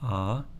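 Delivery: "Ah" as the open A of father; a demonstrated open "Ah"; alpha sound. Shown as a demonstration. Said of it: "Sounds like the A in father".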